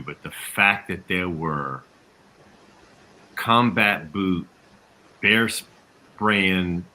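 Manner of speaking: slow, halting mock disbelief; facetious shock. Panelist feigning shock at the Capitol riot, facetious. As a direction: dole it out word by word in feigned shock. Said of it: "that was me being facetious the entire time".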